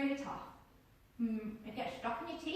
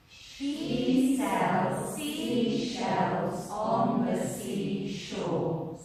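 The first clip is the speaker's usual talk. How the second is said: tongue twister stretched very slowly, louder; slow, loud, drawn out; 3 semitones lower, 8 dB louder, much slower than usual. Shown as a demonstration. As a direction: draw every sound out slowly to feel the tongue. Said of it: "So breathe in".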